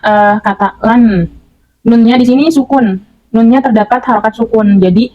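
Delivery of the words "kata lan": "lan" spelled out slowly, nun held without a vowel; pelan, "lan" tanpa vokal di akhir; slow demo word. Shown as a demonstration. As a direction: say "lan" slowly, ending on a bare n. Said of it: "Seperti misalnya".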